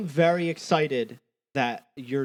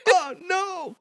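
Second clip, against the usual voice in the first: flustered laughing; 6 dB louder, much slower than usual. Real, not acted. Flustered after word stumble.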